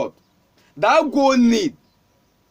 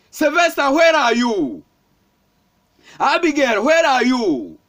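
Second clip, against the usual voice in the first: mock shout, calling for someone missing; angels calling out. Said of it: "The angels are shouting".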